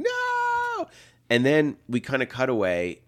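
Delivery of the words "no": retold scream. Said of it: "she's screaming and going".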